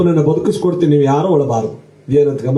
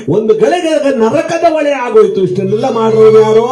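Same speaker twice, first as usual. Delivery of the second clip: storyteller raising the drama; dramatic build; 5 semitones higher, 3 dB louder than usual. Acted. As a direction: build the suspense to a peak.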